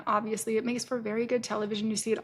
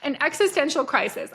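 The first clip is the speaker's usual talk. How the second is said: indignant outburst; 8 semitones higher, 4 dB louder than usual. Retold or imitated. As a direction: pitch jumps high, an incredulous indignant protest. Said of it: "I was so pissed".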